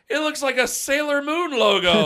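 high, loud mocking shout through laughter; retold yelling. Buddy teasing him about the burn, gleeful loud yelling. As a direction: yell it out to tease your buddy. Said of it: "they're yelling Sailor Moon at me".

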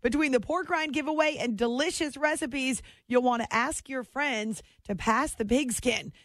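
upbeat station ID and sponsor read; radio host read. Acted. Radio host thanking listeners and reading an ad, announcer style. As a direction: sell it like a host going to break.

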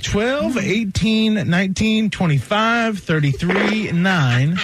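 rapid list like an auctioneer; rattling off numbers. Acted. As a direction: fire the numbers off quickly. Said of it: "You sounded like an auctioneer".

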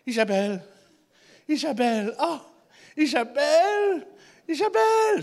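mock ecstatic name-calling; climactic moaned cry. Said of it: "Ofwel roept je zo".

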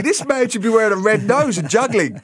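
high mocking disbelief; mocking inner voice. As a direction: scoff like a stunned fan. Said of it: "and I thought".

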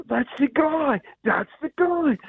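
high-pitched, badly faked Australian accent; terrible Australian accent. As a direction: imitate excited Australians, accent hammed up and high. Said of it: "that's a terrible Australian accent".

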